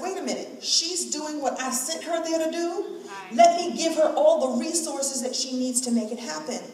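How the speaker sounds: playful voice of God. Retold or imitated. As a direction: play the universe noticing her. Voicing God's reaction.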